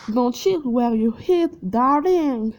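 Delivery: put-on French speaker putting on an English accent; hammed-up English accent. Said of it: "Mon accent anglais".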